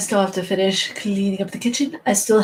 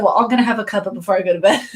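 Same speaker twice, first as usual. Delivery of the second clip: imitated British accent; much faster than usual. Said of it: "he always said".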